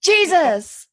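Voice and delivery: sudden high, loud exclamation; startled outburst. Real, not acted. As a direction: blurt it out in shock. Startled outburst while eating.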